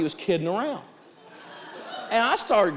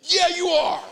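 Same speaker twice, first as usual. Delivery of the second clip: high, louder, smug; mock curt retort; 5 dB louder, slower than usual. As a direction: snap it back pleased with yourself.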